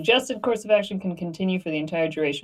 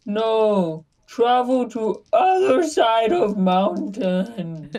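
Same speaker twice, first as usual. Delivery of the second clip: slow, higher-pitched broken-English command; in-character command; 4 semitones higher, much slower than usual. Acted. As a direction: send them off in a drawn-out character voice. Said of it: "we'll be like".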